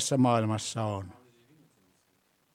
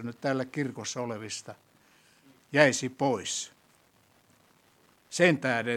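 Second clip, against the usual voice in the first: prayer. Acted. Leads closing prayer.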